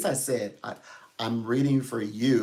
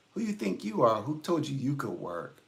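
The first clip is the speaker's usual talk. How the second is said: higher-pitched indignant challenge, falling away; mock indignation; 3 semitones higher than usual. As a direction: imitate people scoffing in disbelief. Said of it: "People like".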